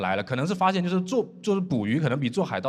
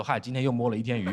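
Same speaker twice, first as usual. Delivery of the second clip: mildly forlorn pirate, pitched low; dejected; 6 semitones lower than usual. Retold or imitated. Pirate reports back to his boss empty-handed, dejected. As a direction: report failure with a deflated, mock-sad resignation. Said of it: "很落寞地离开".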